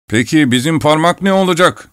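high-pitched protesting question; mild indignant protest; objecting. A narrator's reading. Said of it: "diye karşı geldi bu söze".

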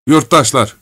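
mild acted moan; moaning murmur. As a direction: plead with a touch of a groan. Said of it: "diye mırıldandı veznedar, iniltili bir sesle".

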